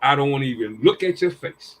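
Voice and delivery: put-on a father telling his girl he's disappointed; lightly voiced stern dad; stern father lecture. Father scolding daughter, retold.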